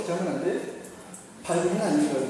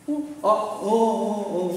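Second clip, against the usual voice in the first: high, drawn-out groggy "uh"; mock husband jolted awake; startled husband; 5 semitones higher, 4 dB louder, much slower than usual. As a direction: stammer awake in surprise.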